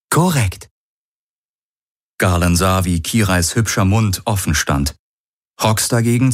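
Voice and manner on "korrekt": higher, even synthetic computer voice; high, neutral onboard computer reading out measurements; ship computer. Acted. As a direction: report data like a calm machine. Ship's computer answers.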